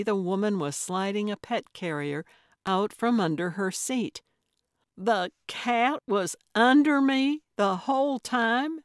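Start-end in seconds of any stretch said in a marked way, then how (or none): 5.0-8.8 much higher and louder incredulous question; disbelief. A narrator's reading. Gertrude to the woman with the cat, incredulous. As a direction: she can't believe her ears. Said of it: "Gertrude couldn't believe it".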